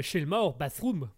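light, muddy American-English accent; attempted American accent. Shown as a demonstration. Host says a song title on request, weak American accent. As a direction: have a modest go at an American accent. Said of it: "avec l'accent américain".

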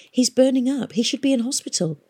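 high, then hushed and worried; worried urgent. A narrator's reading. Catherine telling Nimmo the man is sick, worried. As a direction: urge it anxiously, dropping to a whisper.

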